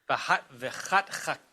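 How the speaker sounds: slow, halting false starts on a hard word; struggling to get the Hebrew word out; stumbling over pronunciation. Real, not acted. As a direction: trip on the repeated throaty syllables and break off. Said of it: "I always have a hard time pronouncing".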